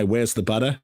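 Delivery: understated try at an Australian accent; honest Australian accent attempt. Shown as a demonstration. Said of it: "The, the honest attempt is".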